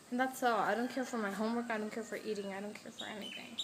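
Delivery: quick listless list, fading to very soft; sad, apathetic. Real, not acted. Vlogger telling viewers nothing matters to her, sad. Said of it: "I am so sad".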